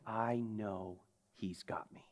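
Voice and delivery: breathy whispered certainty. Retold or imitated. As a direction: let it fall to a whisper. Martyr's whisper of trust.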